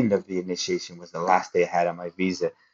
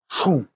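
a quick, higher burst for a jolt; imitated zap; 6 semitones higher than usual. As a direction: sound out the shock with one punchy whoosh. Imitating an electric shock.

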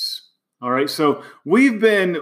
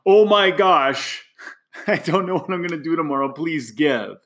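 mock desperation. Coach mocking a desperate donor email, hammed-up panic. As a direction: play a panicked nonprofit begging for money. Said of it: "Not in desperation".

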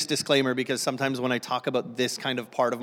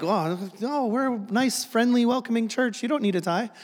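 mock congregation reassurance; 8 semitones higher than usual. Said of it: "I know, you're like".

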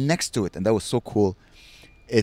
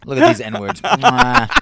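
high, loud caricature voice; hammed-up mock snobs, pitched way up; white pub-goers; 9 semitones higher, 7 dB louder, much slower than usual. White people at the pub eyeing the street party, high, loud mocking caricature. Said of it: "a bunch of white people just like".

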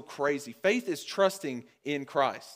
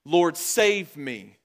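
drawn-out, louder cry to be saved; crying out for help; 6 dB louder, much slower than usual. Retold or imitated. Sinking Peter to Jesus, retold cry for help. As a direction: call out slowly and urgently, as retold. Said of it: "he cried back out to Jesus".

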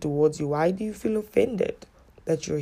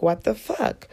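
tag retold disbelief; 4 semitones higher, slower than usual. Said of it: "I didn't say that then".

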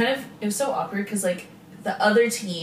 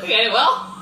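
louder, laughing awkward okay; laughing reaction; 3 semitones higher, 6 dB louder than usual. Retold or imitated. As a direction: laugh through a stunned reply. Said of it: "And I was like".

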